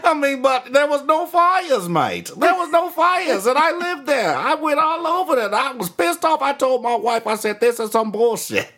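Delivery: high-pitched, indignant Aussie impression; Australian accent. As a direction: rant as a hammed-up outraged Australian. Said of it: "One of those dudes from Australia".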